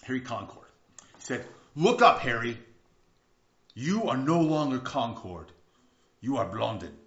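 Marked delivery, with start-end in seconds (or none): 1.7-6.9 hint of a French accent; lightly French-accented, deliberate delivery; slight French accent. Tightrope walker addresses his manager Harry, slight French accent. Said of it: "I'm hearing a little French accent in there".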